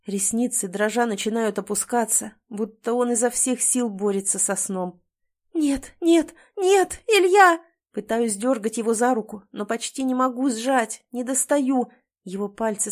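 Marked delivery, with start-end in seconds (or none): 5.5-7.6 loud, high, drawn-out pleading no; wife screaming as her husband loses consciousness; desperate cry. A narrator's reading. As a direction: cry out in panic as he slips away. Husband slipping away, she cries out.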